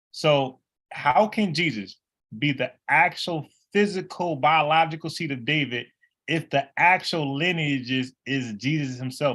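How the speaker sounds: slow, careful delivery.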